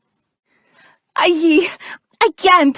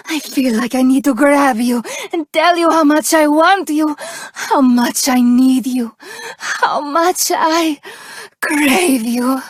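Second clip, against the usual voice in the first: dramatic outburst; 3 semitones higher than usual. Acted. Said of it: "Just rehearsing for the community play".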